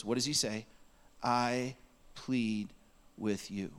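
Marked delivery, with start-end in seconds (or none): 1.2-3.7 slow, spaced-out plea, dropping at the end; emphatic plea. Acted. Preacher reading Paul's plea to the church, emphatic and slow. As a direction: plead it word by word, deliberately. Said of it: "here comes a very emphatic".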